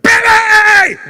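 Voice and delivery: shouted very high and loud; spazzy dad yelling through the door; excited shout. Retold or imitated. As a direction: burst in yelling her name. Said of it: "I burst into her room and I'm like".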